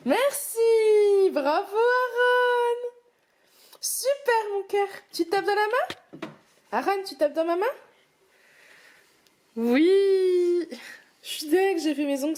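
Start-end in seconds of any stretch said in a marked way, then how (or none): 0.1-4.9 high, loud, drawn-out cheering; excited praise. Real, not acted. Mother praising her son for putting things away, high loud cheer. 5.1-10.7 high, slow coaxing. Real, not acted. Mother asking her toddler for a high five, high coaxing.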